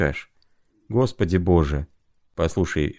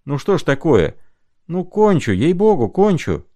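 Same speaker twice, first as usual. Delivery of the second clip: shout; 7 semitones higher than usual. A narrator's reading. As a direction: yell it out, fed up. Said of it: "Так и закричит".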